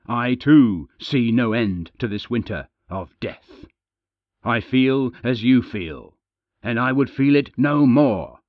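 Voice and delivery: loud, forceful snarling plea. Acted. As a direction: snarl it at the crowd, demanding. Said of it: "with a deep, snarling voice that demanded to be heard".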